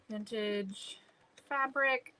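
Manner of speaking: reading under her breath; muttered reading. Real, not acted. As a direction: quietly read it off the screen. Muttering while reading website.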